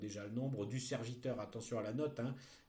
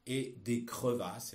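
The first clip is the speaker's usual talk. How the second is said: dictating; slower than usual. Shown as a demonstration. Teacher dictating a text.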